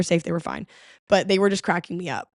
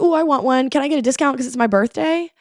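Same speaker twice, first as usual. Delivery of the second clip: put-on girl's eager voice; 5 semitones higher than usual. Girl asking for a discount.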